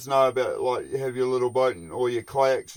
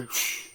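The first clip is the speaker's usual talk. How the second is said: mock sniff; 9 dB quieter than usual. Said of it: "they just go".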